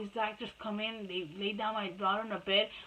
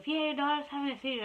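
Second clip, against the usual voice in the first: higher, quick voice of a scolding nurse; insistent retort; 6 semitones higher, faster than usual. Retold or imitated. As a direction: act out the nurse insisting, fast. Nurse's retort in retold quarrel.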